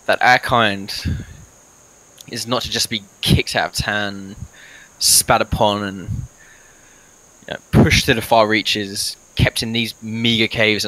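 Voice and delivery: slow, halting in-character speech; rally the party, with long pauses; lightly voiced adventurer. Plays his character's speech to the party.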